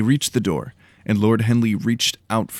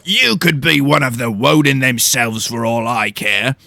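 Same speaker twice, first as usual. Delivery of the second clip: louder, growling big-woman voice; stern house steward growling a challenge; 4 semitones higher, 6 dB louder than usual. Acted. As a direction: growl at the intruders.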